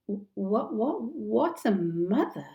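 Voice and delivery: a stuttering, puzzled pirate; stammering Smee. Acted. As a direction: trip over the words, baffled.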